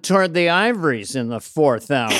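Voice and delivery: lightly voiced sardonic comic impression; hint of a TV satirist's patter; Dennis Miller. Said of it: "My impression of Dennis Miller".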